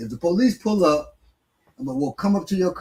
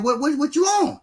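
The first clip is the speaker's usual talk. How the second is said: imitating; 12 semitones higher than usual. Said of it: "I'm like".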